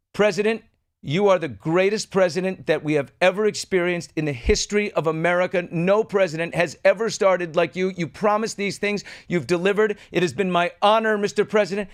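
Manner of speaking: lightly voiced gushing attorney general; a hint of a starstruck cabinet member praising the president; mock fawning Pam. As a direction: flatter the boss like your job depends on it. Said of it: "And Pam goes".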